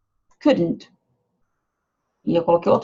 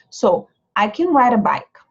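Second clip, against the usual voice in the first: slow demo; 2 semitones higher than usual. Shown as a demonstration. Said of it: "pode ver que o can não sai".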